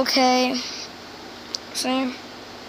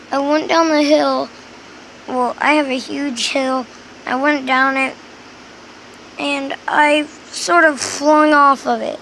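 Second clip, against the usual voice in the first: talking funny, lip barely moving; stiff lip speech. Real, not acted. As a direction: speak without moving the lip. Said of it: "I'm talking a little funny right now".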